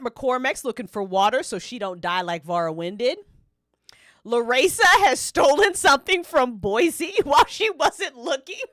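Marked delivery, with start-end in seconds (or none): 4.2-8.6 whispered with a laugh; giggling whisper. Real, not acted. Reading the theft event to chat, half-whispered giggle. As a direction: hold back a giggle.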